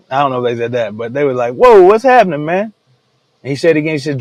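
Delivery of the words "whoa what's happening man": startled outburst, high and loud; hammed-up shock, pitch jumping up; acted bewilderment. Brothers reacting to the reveal, mock startled bewilderment.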